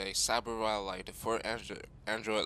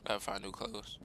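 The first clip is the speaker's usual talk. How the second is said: voice cracking. Real, not acted. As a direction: voice cracks mid-line. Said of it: "my voice cracked".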